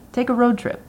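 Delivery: a sick grandfather with some ornery left; ornery old grandfather. A narrator's reading. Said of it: "the last bit of ornery still there in his scratchy voice".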